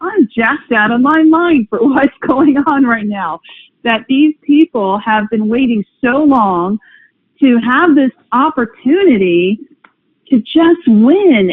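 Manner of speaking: slow, rising excited answer to son; excited reply. Retold or imitated. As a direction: draw it out with building enthusiasm. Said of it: "And I said".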